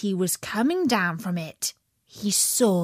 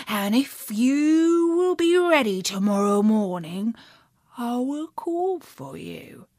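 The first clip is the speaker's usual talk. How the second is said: sly wolf. Acted. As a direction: tempt the pig slyly. Wolf tempts the pig.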